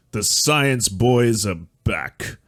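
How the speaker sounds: very slow, drawn-out hype line; a hint of a pompous TV pundit; mock grand announcement. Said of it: "it does sound very Gorka".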